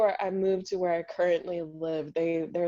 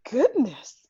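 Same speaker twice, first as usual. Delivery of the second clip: prim fifties lady; 6 semitones higher, 5 dB louder than usual. Retold or imitated. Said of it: "one of those ladies in nineteen fifties".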